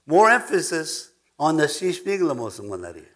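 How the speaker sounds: slow, giggling mock gibberish; laughing. Real, not acted. Preacher laughing at his own nonsense word, slow giggle. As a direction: laugh through the made-up word. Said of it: "that's funny, eh?".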